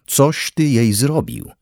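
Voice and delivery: slow, high, drawn-out howl. A narrator's reading. Father repeats his accusation at Henryk, howling slowly. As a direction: stretch every word of the wailed accusation. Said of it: "zawył".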